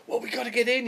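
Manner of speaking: high, pressing insistence; urgent Paul. Retold or imitated. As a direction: push to get through the door now.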